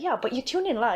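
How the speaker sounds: informal Malaysian. Shown as a demonstration. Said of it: "I actually make it sound very, very informal".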